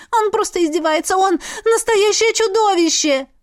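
high, loud urgent telling; desperate account. A narrator's reading. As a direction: pour it all out desperately. Heroine pleads desperately.

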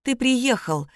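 a touch of sleepy tenderness; tender and sleepy. A narrator's reading. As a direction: murmur it gently as if just woken. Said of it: "пробормотала она нежно и сонно".

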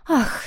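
a theatrical heavy sigh "ah"; тяжёлый вздох. A narrator's reading. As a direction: sigh it out like a wounded mother. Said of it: "тяжело вздохнула Михи".

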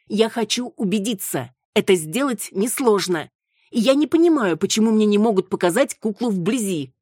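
high, loud outburst on понимаю; insist, then burst out. Acted. Маруся insisting to Виола, high and loud. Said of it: "настаивала Маруся".

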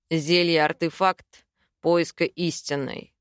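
slow, low, grudging confession; a reluctant, slowed admission. A narrator's reading. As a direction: drag the words out, unwilling. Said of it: "неохотно признался Саймон".

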